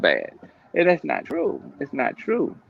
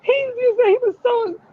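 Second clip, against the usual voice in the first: mimicking a gossiping friend. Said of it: "she finally emotionally throw up on you".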